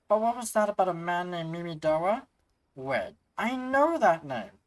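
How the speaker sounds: a lightly voiced prim scholar, a touch theatrical; scholar NPC voice. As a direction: play the chatty scholar sharing gossip.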